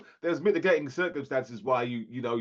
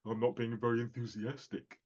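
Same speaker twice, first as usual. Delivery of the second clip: quiet mock daughter; 6 semitones lower, 9 dB quieter than usual. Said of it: "Her perception is".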